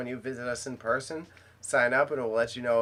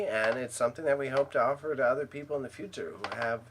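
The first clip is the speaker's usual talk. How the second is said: polished, deliberate public-relations delivery; full PR voice. Pretend. Thanking a client publicly on the record, full PR voice. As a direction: thank the client like an official statement. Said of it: "that was my full P R voice".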